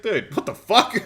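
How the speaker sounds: laughing disbelief. Real, not acted. Reacting to escalation.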